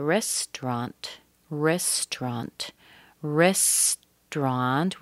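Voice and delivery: "restaurant" as two slow syllables, REST-rant; missing syllable. Shown as a demonstration. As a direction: drop the middle vowel of "restaurant", drawn out. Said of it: "we're missing a syllable here".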